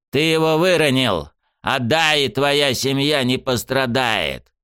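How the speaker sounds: high, slow, coaxing threat; menacing villain. Acted. Sniffer bargains for the pyramid, high slow threat. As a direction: dangle the promise as a threat.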